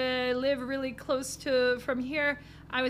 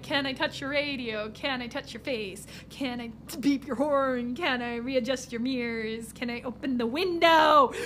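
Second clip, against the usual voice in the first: mock pestering passenger; 2 semitones lower than usual. Imagining herself pestering the driver, mock mumbled. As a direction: lightly imitate a pestering passenger. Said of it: "being in your car and being like".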